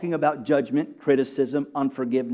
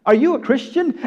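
"Are you a Christian?" pitched up, rising as if sure of a yes; assuming inflection; 6 semitones higher than usual. Shown as a demonstration. Preacher showing how the man asked a stranger, assuming inflection. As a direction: ask "Are you a Christian?" expecting agreement. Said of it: "As though he's assuming that he is".

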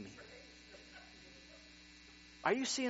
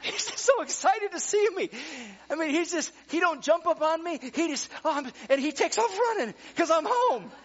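laughing; 12 semitones higher, 9 dB louder than usual. Real, not acted. Laughing joyful dog story.

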